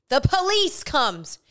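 high, slow emphatic reveal; dramatic announcement. Real, not acted.

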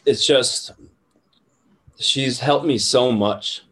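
teary-eyed. Real, not acted. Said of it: "sorry if I get a little teary-eyed".

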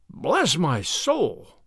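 very slow, stunned exclamation; amazed old fellow, each word stretched; blank amazement. A narrator's reading. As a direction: draw it out in astonishment. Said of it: "in blank amazement".

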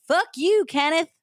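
loud, high Southern curse; acted wife's angry shout; yelling. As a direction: yell it at him furiously. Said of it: "and Susan yelled".

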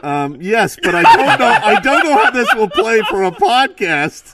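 muffled through a fish mask; underwater. Real, not acted. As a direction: speak from inside a plastic mask. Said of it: "sounds like you're speaking underwater".

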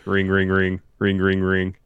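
spoken phone rings, evenly repeated on one pitch; level, sing-song mock ringtone; imitated phone ringing. Reading out Triple H's phone ringing, spoken ringtone. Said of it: "Triple H's phone rings".

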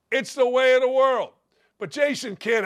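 ordinary delivery

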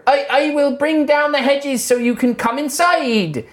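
put-on slow, cheerful old wizard; Howard's voice. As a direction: greet them like a jolly wizard. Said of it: "Howard's voice".

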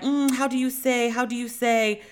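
mocking Hilaria's put-on Spanish accent, searching for words. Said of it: "she has a whole accent and will be like".

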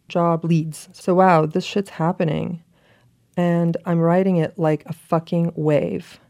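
slow, measured read-aloud; letter reading. Acted. Reading an old letter to the friend who got it, measured read-aloud. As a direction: read it out deliberately, pausing between phrases.

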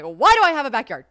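loud complaint trailing off; exasperated outburst fading. Retold or imitated. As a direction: rant at the house, then run out of steam. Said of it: "Here, I'm like".

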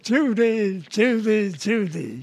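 Cary Grant impression. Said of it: "I was doing Cary Grant".

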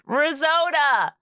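"Risotto" said high and slow, "rizoado"; imitating him on the podcast; mock mispronunciation. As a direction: slowly draw out "Risotto" with a d sound. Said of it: "Then on the podcast".

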